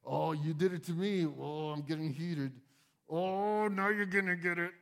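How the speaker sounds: a mock flare of temper; mock hothead. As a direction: play the quick-tempered guy working himself up. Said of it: "slow to become angry doesn't mean".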